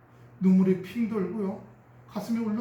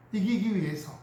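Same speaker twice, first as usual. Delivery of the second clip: ordinary talk, nothing marked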